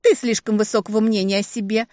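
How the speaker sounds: high voice with firm will; soft but steely. A narrator's reading. Little sister answering back, soft but steely. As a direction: sweetly put her in her place. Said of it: "она говорила мягко, но чувствовалась жёсткая воля".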